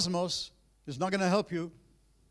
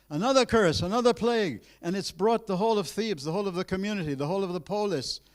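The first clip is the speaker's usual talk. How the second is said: higher, louder build on each phrase; rising emphasis; 4 semitones higher, 4 dB louder than usual. Acted. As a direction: pile the phrases up with weight. Builds up the second plague.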